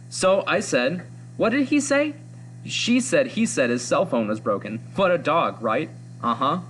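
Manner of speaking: chatty schoolgirl gossip, only lightly put on; teenage girl voice. Reading the comic's teen girls aloud to the class, a hint of girlish gossip. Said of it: "I'm doing my best with this teenage girl voice".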